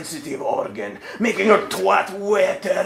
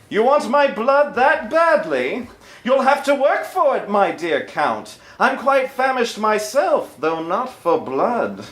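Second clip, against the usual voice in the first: Integra voice. Acted.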